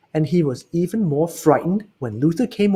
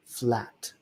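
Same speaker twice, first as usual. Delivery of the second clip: soft, low, dejected word; Stanley telling his parents he's different; sad admission; 4 semitones lower, 9 dB quieter than usual. Acted. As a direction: let it drop quietly. Stanley sadly admits.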